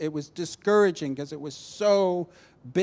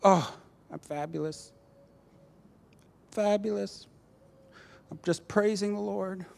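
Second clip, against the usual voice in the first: put-on happy front, lifting high; imitated all-smiles cheer; 4 semitones higher than usual. Woman asked how she is doing, mock cheerful. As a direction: insist lightly that everything is wonderful. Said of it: "she was all smiles".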